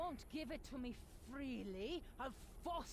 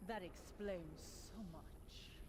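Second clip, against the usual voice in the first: booming echoing villain monologue. Acted. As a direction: relish every word like a mad queen. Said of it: "Enough with the evil monologue".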